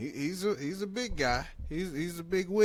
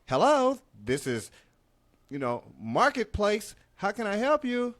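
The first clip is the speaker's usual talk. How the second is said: phone work voice; 6 semitones higher, 4 dB louder than usual. Retold or imitated. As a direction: sound like a call-center rep. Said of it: "on the phone like".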